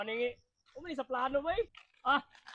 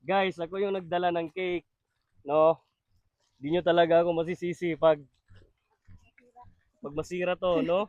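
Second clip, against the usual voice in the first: louder, jolted by bumps; on a bumpy road; 4 semitones lower, 10 dB louder than usual. Real, not acted. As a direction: shout over a bouncing ride. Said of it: "Tingnan nyo yung daan, guys. Sobrang lubak".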